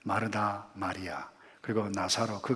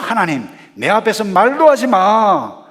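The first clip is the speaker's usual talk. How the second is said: loud, high angry protest; acted furious defiance; defiant outburst; 9 semitones higher, 16 dB louder than usual. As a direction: lash out at God, full voice. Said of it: "막 대들고".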